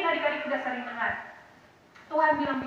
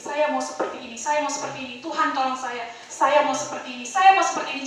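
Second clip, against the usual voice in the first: resolute prayer building; 4 dB louder than usual. Acted. Voicing a determined believer's prayer.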